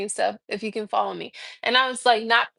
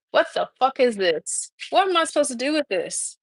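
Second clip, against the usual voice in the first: incredulous; 4 semitones higher than usual. Retold or imitated. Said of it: "I was like".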